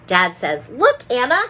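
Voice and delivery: gentle read-aloud voice; picture book reading. A narrator's reading. Teacher reading a picture book to children. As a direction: read the story to little ones.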